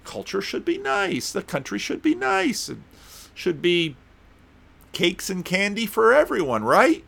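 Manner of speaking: mock the people who want it nice; mock sing-song of people wanting everything nice; naive voice. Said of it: "a lot of people think".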